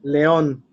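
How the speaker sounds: león with the stress on ÓN; stress on last syllable. Shown as a demonstration. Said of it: "have to pronounce it that way".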